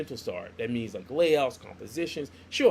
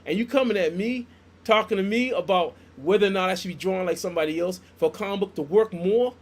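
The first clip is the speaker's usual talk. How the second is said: indignant retort; 4 semitones higher, 6 dB louder than usual. Retold or imitated.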